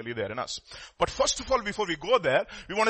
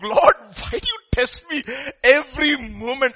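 crying out; 9 semitones higher, 8 dB louder than usual. Acted. Job protests to God about constant testing, acted outcry. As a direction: wail the complaint up to heaven. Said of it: "he's, like, crying out".

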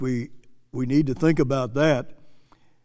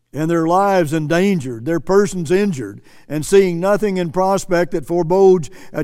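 emphatic, declamatory quote from the pulpit; preacher reading a quotation; 3 dB louder than usual. Acted.

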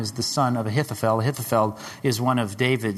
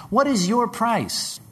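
What is your price asked high and slow; high pressing question; 11 semitones higher, slower than usual. Acted. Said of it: "The question really isn't".

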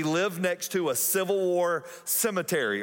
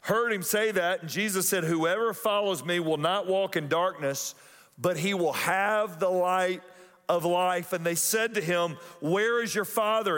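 measured, deliberate reading of the gospel passage; preacher reading scripture aloud. Acted. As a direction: read the verses with weight.

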